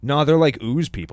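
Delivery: ooze voice. Pretend. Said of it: "that's my ooze voice".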